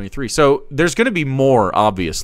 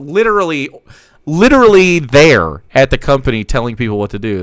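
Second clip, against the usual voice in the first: incredulous; 8 dB louder than usual. Real, not acted. Incredulous outburst.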